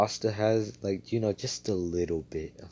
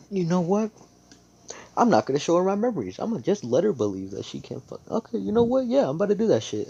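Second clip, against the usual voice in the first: high, loud, hurried squeaky rant; hammed-up fed-up decision, pitched way up; exasperated outburst; 12 semitones higher, 7 dB louder, faster than usual. Hero's exasperated inner rant.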